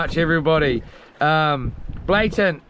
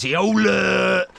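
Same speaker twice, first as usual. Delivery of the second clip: mock lion roar call. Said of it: "Lion King in the house".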